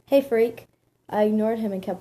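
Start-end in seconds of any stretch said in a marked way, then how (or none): 0.1-0.7 loud, mildly stern taunt; a touch of stern heckling, louder; stern, annoying voice. Acted. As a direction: call out sternly to needle someone. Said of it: "spoke in a stern, annoying voice".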